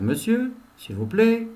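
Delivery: student politely calling the teacher. Shown as a demonstration. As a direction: ask the teacher nicely. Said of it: "Il va dire".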